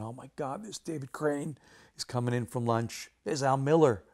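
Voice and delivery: retelling a starstruck gasp at seeing his heroes; starstruck excitement. Retold or imitated. Starstruck spotting heroes at office.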